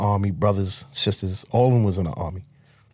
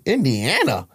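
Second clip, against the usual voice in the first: surprised questioning, pitched up; puzzled echo; 5 semitones higher, slower than usual. Retold or imitated. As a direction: echo the place name in mild disbelief. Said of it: "same way you said it".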